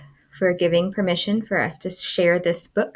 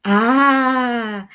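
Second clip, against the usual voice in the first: sigh; 5 semitones higher, 5 dB louder than usual. Acted. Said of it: "the crowd sighed".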